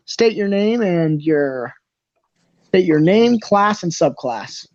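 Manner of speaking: slow, lightly voiced official; ticketmaster. Ticketmaster registering a fighter, slow official voice. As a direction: draw out each item of the formal question. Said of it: "the Ticketmaster kinda walks up to you".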